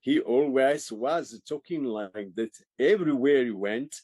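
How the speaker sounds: lightly put-on Czechoslovakian accent. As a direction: imitate a Czechoslovakian actor's way of talking. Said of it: "He had that Czechoslovakian accent".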